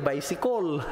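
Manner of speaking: Bicycle ending in a rounded "-kol"; Cebuano-accented "baysikol". Shown as a demonstration. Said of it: "Ganyan ba?".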